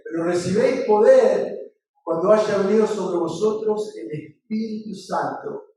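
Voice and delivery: emphatic preacher quoting scripture; scripture recitation. Acted. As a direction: proclaim the verse, slowing at its end.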